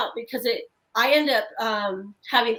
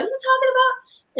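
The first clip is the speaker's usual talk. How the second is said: much higher, sudden startled question; mother recalls her startled reply to her daughter; 14 semitones higher, 4 dB louder than usual. Retold or imitated. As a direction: retell the jolt of alarm, pitched up high. Mother startled by daughter's ghost story.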